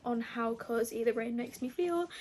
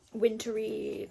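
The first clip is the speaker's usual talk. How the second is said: ordinary talk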